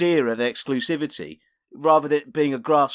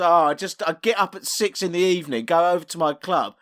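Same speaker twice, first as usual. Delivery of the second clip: sarcastic, higher-pitched woe-is-me; mock complaint; 3 semitones higher, 3 dB louder than usual. Co-host mimics club owner moaning about hard work, mock complaint. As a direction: whinge as if hard done by.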